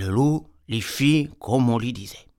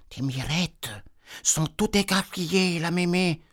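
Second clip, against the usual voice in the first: put-on little girl voice; 5 semitones higher, 4 dB quieter than usual. Girl questioning granny.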